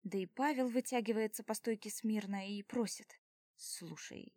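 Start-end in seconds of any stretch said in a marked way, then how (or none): 3.5-4.3 urgent hushed whisper. A narrator's reading. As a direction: lean in and whisper it. Pasha hushes her urgently.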